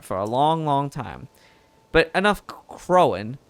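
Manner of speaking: lightly southern reporter voice, easygoing; southern accent. Acted. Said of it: "now it's going really southern".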